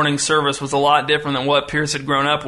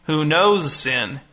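slow question with "knows" raised and stretched; stress on KNOWS; much slower than usual. A narrator's reading. Pastor repeating his question from the pulpit, stressing "knows". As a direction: lean hard on "knows". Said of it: "rotating emphasis on each word".

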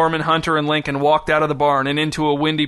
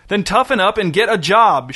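louder and higher, a father's angry shout; 5 semitones higher, 4 dB louder than usual. A narrator's reading. Father shouting at his son to toughen up: angry shout. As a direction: bark it at the son, fed up. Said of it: "shouted Ward".

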